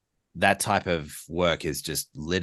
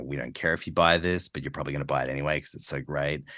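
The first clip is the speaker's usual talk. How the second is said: offhand commercial read with attitude, rushing at the end; lovable-jerk ad read, lightly edgy; 3 semitones lower, 3 dB quieter, faster than usual. Shown as a demonstration. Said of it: "that edgy read".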